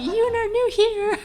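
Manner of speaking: put-on high, slow insistent child; imitating her daughter. Daughter repeating it to her dad, high slow insistent voice. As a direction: repeat it up high and stretched like an impatient toddler. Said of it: "She's like".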